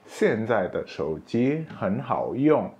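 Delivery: slow, careful Mandarin example; slow classroom demo; slow model sentence. Shown as a demonstration. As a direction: read it slowly for learners.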